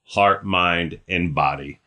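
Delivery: pastor's closing prayer; spoken prayer. Real, not acted. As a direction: pray a blessing over them, settling down to the amen.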